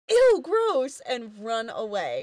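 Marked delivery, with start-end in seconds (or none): 0.1-1.0 high, loud mock girlish "ew"; disgusted yell. Carly and Sam recoiling from Lube, yelling in disgust. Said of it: "they both yell".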